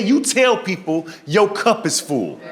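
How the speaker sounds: slow, spaced-out doctor's advice; deliberate repeat. Retold or imitated. Doctor repeating advice to confused patient, slow and deliberate.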